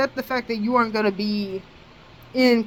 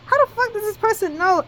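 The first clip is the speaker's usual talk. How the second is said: shocked inner thought; 11 semitones higher than usual. Retold or imitated. Suddenly suspicious in his head.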